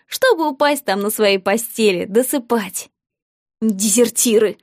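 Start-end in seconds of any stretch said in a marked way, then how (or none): 3.6-4.6 a touch of scorn; contemptuous. Acted. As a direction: spit it after them mildly. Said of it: "презрительно сказала мама". (презрительно)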